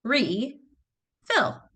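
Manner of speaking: Re-fill split into re and fill; tapped-out syllables. Shown as a demonstration. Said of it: "I'm gonna tap it out".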